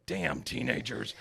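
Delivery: slow put-on gripe; mock grumbling Dale. Retelling Dale blaming teenagers, slow mock grumble. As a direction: grumble it like a cranky neighbor.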